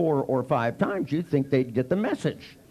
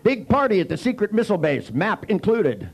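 laughing; 8 semitones higher, 4 dB louder than usual. Retold or imitated. Joke ad laughing through.

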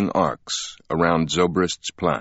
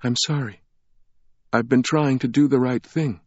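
tearful apology; 6 semitones higher than usual. A narrator's reading.

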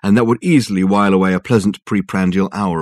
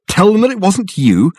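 disbelieving, raised question; incredulous; 11 semitones higher, 5 dB louder than usual. A narrator's reading. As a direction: scoff in disbelief. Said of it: "said Dirk incredulously".

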